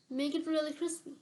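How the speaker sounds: man ordering toast, said with conviction. Acted. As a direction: insist on it, it matters to him. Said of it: "he says with conviction".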